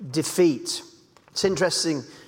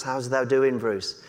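Yorkshire chat; 9 semitones lower, 4 dB quieter than usual. Retold or imitated. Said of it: "we did used to use these and thous".

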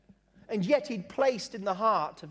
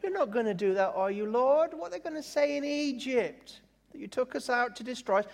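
mock incredulous pleading, climbing high; parody Moses; 6 semitones higher, faster than usual. Moses talking the Lord out of it, mock dismay. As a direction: question upward in comic disbelief. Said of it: "it's like Moses go".

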